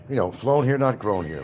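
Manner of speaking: quoting a local saying, stress on "flown"; quoted saying. Retold or imitated. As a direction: lean hard on "flown" then contrast "grown". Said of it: "what they say".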